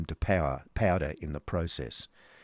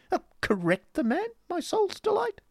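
very high, squeaky-high fop; wounded dandy protesting in falsetto; affected protesting husband; 3 dB louder than usual. Acted.

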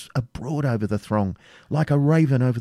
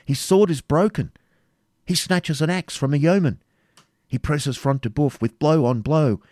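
high-pitched, eager battle report; joyful eagerness; 10 semitones higher, 4 dB louder than usual. A narrator's reading. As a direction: exclaim with relief and rising excitement. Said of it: "shouted with joyful eagerness".

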